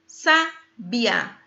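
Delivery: "sabia" broken up with a pause after sa; syllable by syllable. Shown as a demonstration. Teacher testing the word's syllables, "sabia" broken apart. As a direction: say "sabia" in separated syllables, sa... bia. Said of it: "Três sílabas".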